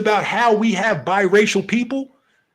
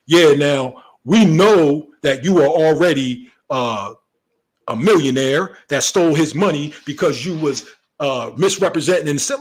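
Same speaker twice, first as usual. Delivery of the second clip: mock interviewer; 4 semitones lower, 3 dB louder than usual. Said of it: "It's like saying".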